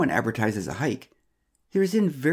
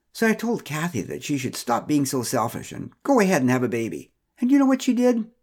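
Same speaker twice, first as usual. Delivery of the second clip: gossiping Pamela; 2 semitones higher than usual. Acted. Pamela complaining to Mara about Kathy, lightly voiced gossip. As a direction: gossip with self-righteous relish.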